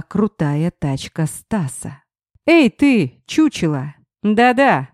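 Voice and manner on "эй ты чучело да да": rude shout. Acted. Ex-husband yells from car.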